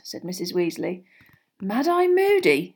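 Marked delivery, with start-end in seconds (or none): 1.6-2.7 higher, slow, musing "Mad Eye Moody"; thoughtful George. A narrator's reading. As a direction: muse over the name. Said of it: "said George thoughtfully".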